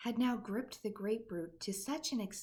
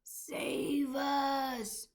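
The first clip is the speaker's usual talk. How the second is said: higher, louder panicked cry; terrified scream; 5 semitones higher, 4 dB louder than usual. A narrator's reading. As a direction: plead in a frightened shriek. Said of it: "screamed the flesh lump eater".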